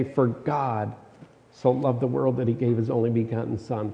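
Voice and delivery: "God" held, then a pause before the rest; stress on GOD. Shown as a demonstration. Preacher shows how one verse shifts, stress on "God". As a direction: lean on the word "God" and pause after it. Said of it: "read it ten times with the emphasis on a different word".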